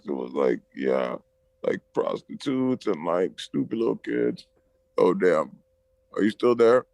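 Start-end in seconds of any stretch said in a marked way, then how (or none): 1.6-6.9 choppy robot-like phone voice; robot voice from a breaking-up line. Real, not acted. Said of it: "Why do you sound like a robot all of a sudden?".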